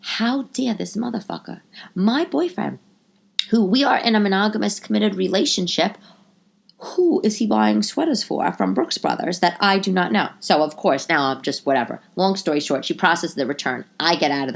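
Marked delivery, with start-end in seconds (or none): 0.0-10.3 indignant, higher-pitched inner rant; mock-outraged questioning; retold fury. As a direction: act out outraged disbelief. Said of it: "I am furious".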